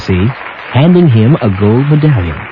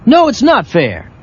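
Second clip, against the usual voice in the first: sulking; 10 semitones higher than usual. Acted. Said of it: "sulked Woody".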